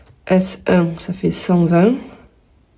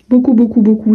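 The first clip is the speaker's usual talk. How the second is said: rising, louder gush; excited emphasis; 4 semitones higher, 5 dB louder than usual. Real, not acted. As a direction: beaucoup punched with joy. Gushing about her own work.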